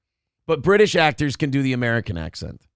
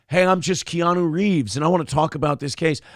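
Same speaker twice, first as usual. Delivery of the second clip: lightly mimicked laid-back actor, plain accent; Keanu Reeves; 2 semitones higher than usual. Keanu wanting to talk about this case, lightly imitated. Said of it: "sometimes he's like".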